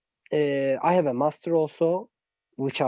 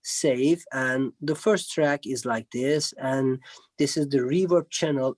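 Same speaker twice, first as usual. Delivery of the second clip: put-on lower, slow, patient talk as if to a small child; speaking to a child; 4 semitones lower than usual. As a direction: spell out each step slowly like a patient teacher to a kid. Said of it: "like speaking to a child".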